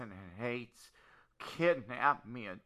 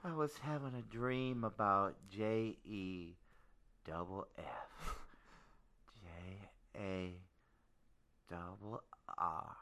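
sleepy; 9 semitones lower, 12 dB quieter than usual. Acted. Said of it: "you can hear very well in your sleep".

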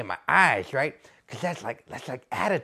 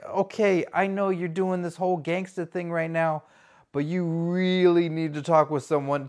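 ordinary talk

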